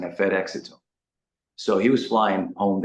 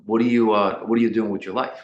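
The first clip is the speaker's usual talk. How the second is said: put-on broken-accented dad demanding an answer; louder, imitated broken-English accent; father's broken accent; 4 dB louder than usual. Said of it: "in a really broken accent".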